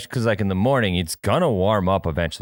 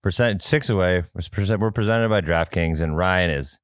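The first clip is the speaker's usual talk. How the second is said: unenthusiastic. Real, not acted. Host opening the podcast while nervous, unenthusiastic. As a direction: open the show without much excitement. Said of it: "with a little more enthusiasm".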